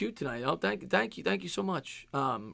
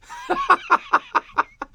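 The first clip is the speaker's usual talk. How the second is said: high laugh. Real, not acted. Laughs at own joke.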